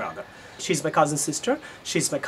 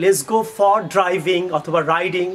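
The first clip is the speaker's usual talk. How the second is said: slow wrong example; 4 dB louder, much slower than usual. Shown as a demonstration. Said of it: "Don't try to say that".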